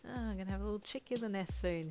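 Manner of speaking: happy. A narrator's reading. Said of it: "he thought happily".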